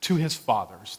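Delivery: lightly voiced rabbi, pitched a little up; a hint of a rabbi at a burial; rabbi's pronouncement. Rabbi speaking over Matthew's buried father, lightly voiced pronouncement. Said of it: "the rabbi said".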